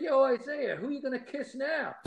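high mock holler at a player; imitated fan taunt from the stands; retold taunting yell. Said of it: "I start yelling out".

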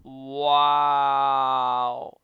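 breathy astonished whisper; whispered wow. Real, not acted. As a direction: breathe it out in disbelief. Reacting to clip in awe.

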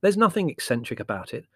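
surprised. A narrator's reading. Larry contradicting his mother, mildly surprised. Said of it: "said Larry, surprised".

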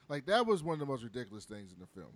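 normal talking voice

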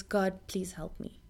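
low, whispered prayer; hushed plea. Acted. Preacher showing a struggling person's prayer, hushed plea. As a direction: plead softly, almost under the breath.

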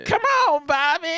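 put-on high strained raspy old voice; failed raspy voice. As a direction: try the raspy voice, too high. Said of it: "I can't do the raspy voice that Shorty had".

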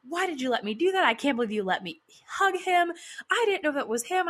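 high-pitched mock panicked protest; retold freak-out. Friend protesting about hugging her arch enemy, imitated high freak-out. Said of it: "she freaks out and is like".

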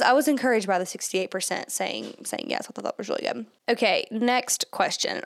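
short of breath, pregnant; breathless between words. Real, not acted. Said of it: "I'm sorry if I sound out of breath".

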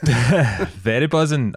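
sleepy yawning drawl; slow, yawning delivery. Real, not acted. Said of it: "as he yawns".

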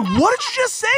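high-pitched incredulous question; mock disbelief. Uncle confronting his niece, high mock disbelief. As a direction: challenge it way up high.

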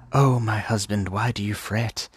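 lightly voiced doting bride; cooing wife. Voices the wife soothing her husband.

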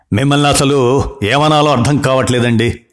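a hint of a scolding doctor; understated annoyed rebuke; mild anger. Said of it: "కోపాన్ని ప్రదర్శించాడు". (కొంచెం కోపంగా గద్దించడం)

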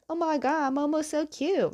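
high-pitched imitated squeal of adoration; gushing fangirl. Fan meeting the flying lemur Momo, gushing. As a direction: coo over a pet way up high. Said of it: "just, like, gushing over Aang".

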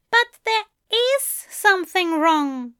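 high, emphatic assertion; insistent statement. A narrator's reading. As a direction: state it as fact, not asking. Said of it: "not a question".

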